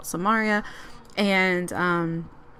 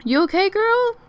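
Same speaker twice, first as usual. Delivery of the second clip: high-pitched, loud mock concern; playful check-in; 12 semitones higher, 5 dB louder than usual. Player checking on her angry Sim, playful high voice. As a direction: ask it way up high, teasing the character.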